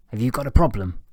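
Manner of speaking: loud challenge from the lecturer; confrontational teacher. A narrator's reading. Lecturer stops teaching to confront pupil, loud challenge. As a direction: pull up a staring pupil, loudly.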